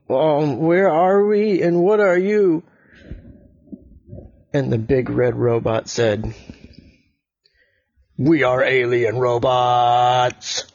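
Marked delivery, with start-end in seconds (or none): 0.1-2.6 put-on nervous boy. Nervous boy asks the robots. 8.2-10.7 slow, droning robot voice. Acted. Big red robot speaks.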